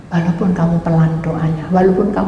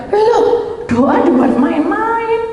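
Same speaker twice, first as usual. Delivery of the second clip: inner disbelief; 13 semitones higher, much slower than usual. Retold or imitated. Inner shocked thought.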